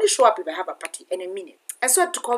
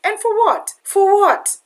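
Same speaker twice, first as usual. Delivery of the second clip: retold outcry; 10 semitones higher, 7 dB louder, slower than usual. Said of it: "I was like".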